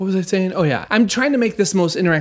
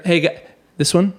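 high radio voice; 3 semitones higher than usual. Shown as a demonstration. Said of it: "Too high".

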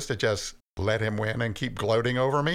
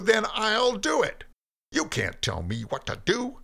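rising, louder furious tirade; angry Cain; 7 semitones higher, 3 dB louder than usual. Acted. Cain raging at God that nobody controls him, furious. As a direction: build into an outburst of defiance.

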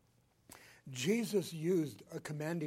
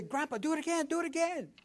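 grandkids begging; 10 semitones higher, 4 dB louder, faster than usual. Retold or imitated. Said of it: "They say".

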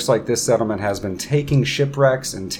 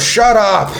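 loud, raised-pitch snap at a crowd; irritated shout; 10 semitones higher, 8 dB louder than usual. Acted. Ront yells at babbling Kuatoa as he leaves, loud irritation. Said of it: "and he goes".

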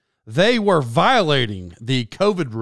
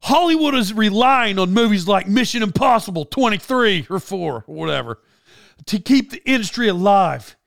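mock rant read aloud; imitated yelling; 5 semitones higher than usual. Star lecturing crew about Hollywood, mild mock yelling. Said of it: "he's yelling at 'em".

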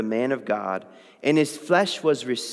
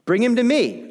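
prophet's command; 8 semitones higher, 4 dB louder than usual. Acted. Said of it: "says to him".

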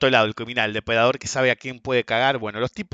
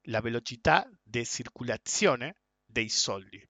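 slow, softer Italian quote, word by word; Italian taxi driver; 3 semitones lower, 6 dB quieter, slower than usual. Retold or imitated. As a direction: repeat it slowly in imitated Italian. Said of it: "estaba en un taxi en Italia".

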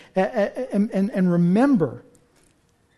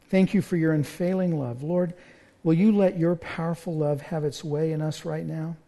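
closing prayer; 2 semitones lower than usual. Real, not acted. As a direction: lead the congregation gently into prayer.

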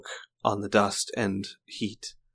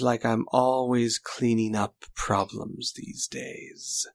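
villain voice; 2 semitones higher than usual. Acted. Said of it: "and goes".

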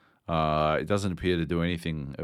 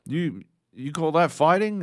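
higher, louder gruff taunt; mock trainer; 9 semitones higher, 5 dB louder than usual. The tutorial trainer taunting him, louder mock bark. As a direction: bark it like a drill instructor. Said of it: "you know".

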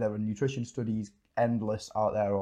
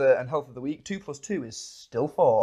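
mock news anchor; 3 semitones higher, 5 dB louder than usual. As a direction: announce it like a pompous anchor.

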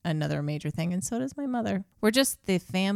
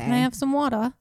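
higher, mock British voice; put-on British accent; 5 semitones higher, 3 dB louder than usual. Podcaster pretending to be an overheated troop, mock British accent. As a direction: play a parched Brit, hammed-up accent. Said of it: "talk in a British accent".

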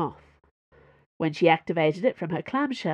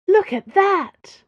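delighted exclamation; 13 semitones higher, 9 dB louder, slower than usual. Acted.

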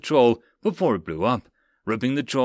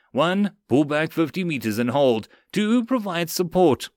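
firm, raised orders, rising on the second; commanding; 4 semitones higher, 3 dB louder than usual. Acted. Sergeant directing two sections to withdraw, commanding. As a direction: issue orders to the squads. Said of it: "he commanded".

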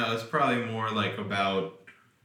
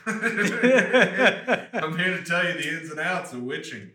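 witch teacher voice; 7 semitones higher, 4 dB louder than usual. Pretend. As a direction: play a hammy witch headmistress. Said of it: "I've been a witch for thirty years".

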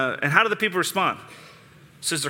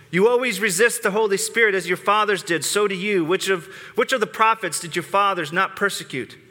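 raised pitch, pressing each accusation home; stern rebuke; 4 semitones higher than usual. Retold or imitated. Preacher reading Stephen's accusation to the council, stern and raised. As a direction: read it like a prophet not pulling punches. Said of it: "He's not holding punches".

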